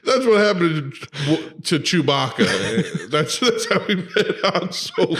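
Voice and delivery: words squeezed out through giggles; can barely hold back the laughter while telling it; laughing. Real, not acted.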